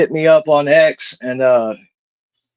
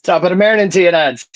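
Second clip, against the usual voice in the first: light Irish lilt on a stock greeting, a bit higher; playful Irish accent; 3 semitones higher, faster than usual. Pretend. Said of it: "I love that accent".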